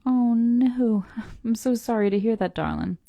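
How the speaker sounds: real heartfelt sympathy; sympathetic. Real, not acted. Streamer consoles a listener whose parent is in hospice, sympathetic.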